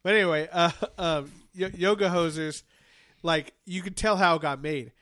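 talking through a blocked nose; congested, nose fully stuffed. Real, not acted. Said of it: "I'm kinda stuffed up right now".

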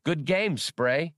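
high, eager little droid voice; childish droid voice. Acted. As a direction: chirp it like a know-it-all kid robot. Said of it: "in his childish voice".

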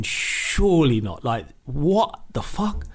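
slow, drawn-out inner disbelief; stunned disbelief. Retold or imitated. Player thinking as his teammate punches him, slow stunned disbelief. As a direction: let the disbelief stretch out slowly. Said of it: "I'm thinking".

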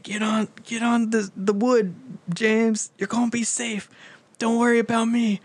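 high, overdone noble hero; hammed-up heroic sacrifice. Jack urging James onto the wood, high hammy nobility. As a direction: play the selfless hero to the hilt. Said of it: "He's like".

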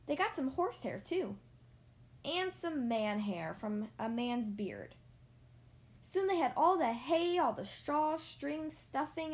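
put-on reading a picture book aloud to children; story narration. A narrator's reading. Reader telling children about Mister and Missus Bird, storybook narration. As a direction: tell it like a bedtime story.

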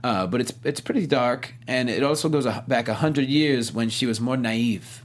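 lightly voiced Israeli accent, Gal Gadot; a hint of Gal Gadot's Israeli accent. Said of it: "I will not do this in her accent".

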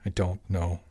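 sighing, resigned. Acted. Jimmy repeats himself to Tony, quietly resigned. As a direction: let it drop away, giving up. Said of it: "Jimmy sighed".

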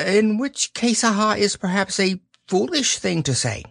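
a timid piglet worrying aloud; lightly voiced fretful piglet; high Piglet voice. A narrator's reading.

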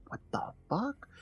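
high, very soft startled whisper. Retold or imitated. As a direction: whisper it in hushed mock alarm.

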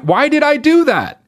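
very high mock disbelief; imitated baffled dancer. Dancer questioning themself after the hook, mock disbelief.

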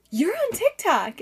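high, drawn-out fan recognition; starstruck fan. Retold or imitated. Parent recognizing her from TikTok, mock-starstruck and high. Acting out excited fan's recognition.

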